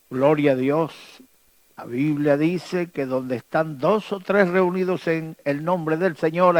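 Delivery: usual speaking voice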